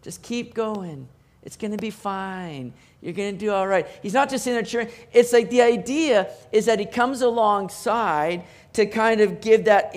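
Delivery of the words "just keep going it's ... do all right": a light hint of a soft, slow cheerleader; mock cheerleader. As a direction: imitate a gentle cheerleader, slow and softer. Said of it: "kinda like a cheerleader".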